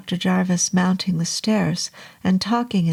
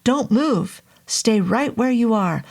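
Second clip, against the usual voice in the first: raised, higher warning; urgent command; 4 semitones higher than usual. Acted. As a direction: order it urgently.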